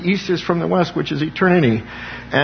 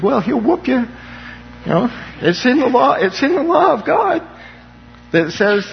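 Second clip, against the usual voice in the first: rising preaching fervor; 9 semitones higher than usual. Real, not acted. Preacher warns of God's punishment.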